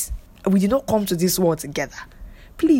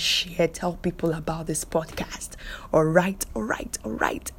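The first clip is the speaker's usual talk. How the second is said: whisper. Real, not acted. Whispering closing plea.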